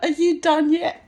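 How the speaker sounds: bored, unbothered tease through a laugh; patient, unimpressed. Retold or imitated. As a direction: ask it like you're waiting him out. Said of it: "Very patiently".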